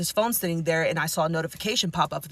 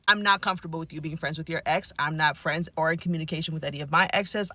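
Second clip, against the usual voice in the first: lower, controlled, understated firmness; stern but polite; 3 semitones lower, 3 dB quieter than usual. Retold or imitated. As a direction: lay down the rule politely and firmly. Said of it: "very sternly and very politely".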